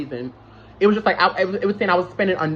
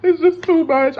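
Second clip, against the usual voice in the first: retold crying. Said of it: "I'm crying to him like".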